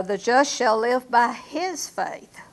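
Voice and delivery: slow, with "his" pressed; stress on his. Shown as a demonstration. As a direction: put the weight on "his" before faith. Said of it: "What's the emphasis there?".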